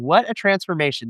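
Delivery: normal talking voice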